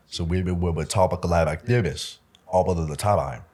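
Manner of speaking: slow, with a "b" syllable slipped into "talk" and "this"; made-up B language. Retold or imitated. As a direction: slowly drop "b" sounds between the words, like a kids' secret code. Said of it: "we would put B's in between everything".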